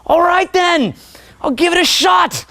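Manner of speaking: high, mildly curious voice; thoughtful open learner. Retold or imitated. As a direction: consider advice with mild interest. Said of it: "you go".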